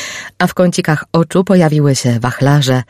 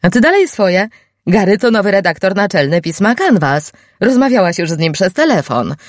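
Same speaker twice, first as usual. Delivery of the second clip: higher, exasperated scoffing; 6 semitones higher than usual. Acted. Alexa scoffing at Liz, higher and exasperated. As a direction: scoff at her forgetfulness. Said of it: "Alexa prychnęła".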